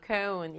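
cone with a gliding "oh-oo" vowel; English pronunciation. Shown as a demonstration. Teacher modelling the word for pupils, cone with a gliding English O. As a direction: say cone as "koh-oon". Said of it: "이렇게 발음하고요".

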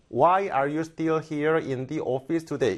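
"Why are you still here in the office today?" read flat word by word, no stress; flat Korean-style reading. Shown as a demonstration. Teacher imitating students reading flat off the script. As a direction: read it slowly off the script with no rise or fall. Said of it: "이런 식으로 한국식으로 강세 없이 쭉 가게 돼요".

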